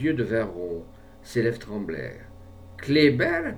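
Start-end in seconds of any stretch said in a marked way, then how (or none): 2.8-3.5 stammered. A narrator's reading. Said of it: "balbutia-t-il".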